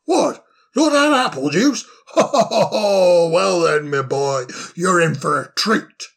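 squeaky shocked hoot of disbelief; jolly owl, amazed and chuckling; astonished old owl. Acted. Solly astonished.

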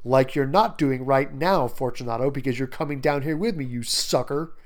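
mildly mocking mock-advice; a touch of taunting; needling poke. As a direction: jab at a gullible victim. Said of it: "gives him another poke".

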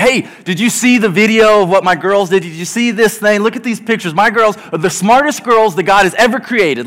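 eager, mildly hammed-up boasting dad; proud dad showing off. Dad showing everyone phone videos of his girls, proud bragging. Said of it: "I'm the prototypical dad".

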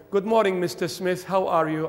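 stiffly polite greeting; mock-formal morning hello. Child greeting his dad as Mister Smith, formal. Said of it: "do not speak to your father formally".

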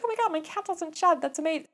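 high, gushing fake excitement; mock delight. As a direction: gush like you just got great news. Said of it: "I was like".

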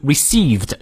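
"received" with its second vowel held fully long. Shown as a demonstration. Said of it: "长音念到位". (“received”的长音ee念到位)

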